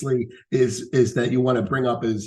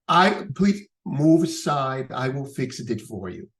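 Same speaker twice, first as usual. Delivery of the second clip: slow Italian immigrant father; proud old bricklayer, lisping; broken English with lisp; slower than usual. Retold or imitated. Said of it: "broken English with a lisp".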